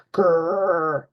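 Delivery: mock grr growl; playful pretend growl; toy dinosaur growl. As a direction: growl like a kid playing dinosaur. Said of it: "he growls".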